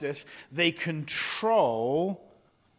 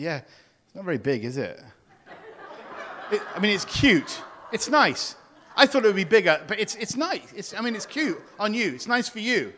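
mock catty compliment; 3 semitones higher than usual. Mimicking a jealous friend.

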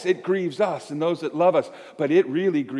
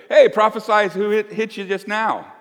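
louder, higher sneering jeer at a blindfolded prisoner; guard mocking the beaten prisoner, jeering louder; mocking soldier taunt; 5 semitones higher, 4 dB louder than usual. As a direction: taunt him like a cruel guard.

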